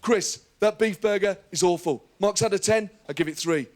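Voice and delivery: a light take on a blunt celebrity chef scolding; a hint of a chef telling it straight; lightly voiced Gordon Ramsay verdict; Gordon Ramsay impression. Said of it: "'Cause he tells it like it is".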